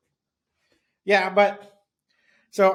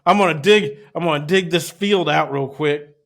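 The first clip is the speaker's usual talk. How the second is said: mock eager worker; 2 semitones higher, 7 dB louder than usual. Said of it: "mock lazy worker".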